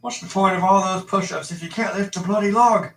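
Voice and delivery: hammed-up Cockney butler; Michael Caine impression. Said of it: "I can't do Michael Caine".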